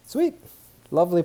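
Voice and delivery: high, bright burst of delight; pleased with the finished problem; excited. Real, not acted. Teacher celebrating a solved problem, excited high exclaim.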